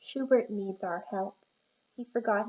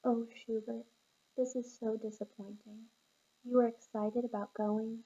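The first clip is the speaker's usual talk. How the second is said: calm parent. Acted. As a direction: coax him down gently, like a calm parent. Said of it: "this is you coming in calm".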